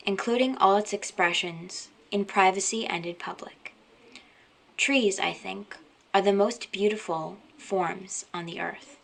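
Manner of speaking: measured poetry reading with pauses between phrases; poem reading. Acted. Sharing a favorite love poem with viewers, gentle poem reading. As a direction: read the poem gently, unhurried, letting each line settle.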